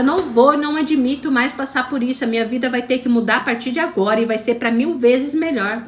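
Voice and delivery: fed-up resolve. Retold or imitated. Coach voicing a viewer who is fed up with life, firm defiant declaration.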